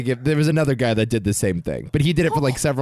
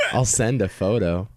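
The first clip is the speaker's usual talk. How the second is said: sexy voice; 4 semitones lower than usual. Pretend. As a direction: read it like a seductive come-on. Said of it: "start reading in your sexy voice".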